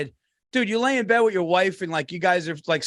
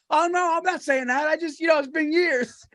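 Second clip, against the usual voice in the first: high-pitched, hasty reassurance; apologetic backpedal; 10 semitones higher than usual. Retold or imitated. Guy reassures old acquaintance about weight, apologetic backpedal. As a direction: act out a polite, awkward backpedal. Acting out an embarrassed, polite backpedal.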